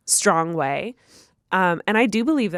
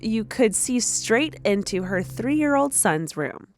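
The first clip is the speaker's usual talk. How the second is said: story narration; 3 semitones higher than usual. A narrator's reading. Reads a listener's story aloud.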